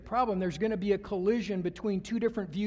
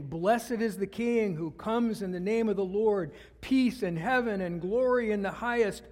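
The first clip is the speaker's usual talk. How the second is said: louder, ringing crowd proclamation; a raised, joyful proclamation; proclaiming loudly; 5 dB louder than usual. Retold or imitated. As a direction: call it out like the praising crowd. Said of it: "with a loud voice".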